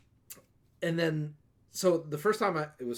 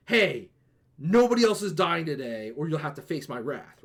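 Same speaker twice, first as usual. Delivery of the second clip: louder, stern hero voice warning a killer; paladin warning; 5 dB louder than usual. Retold or imitated. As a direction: call him to order like a righteous paladin.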